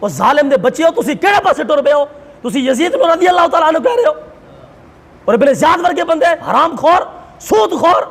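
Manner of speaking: righteous scolding that climbs in pitch; indignant rebuke. Real, not acted. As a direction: rebuke them from the pulpit, voice lifting. Preacher denouncing Yazid's defenders to their face.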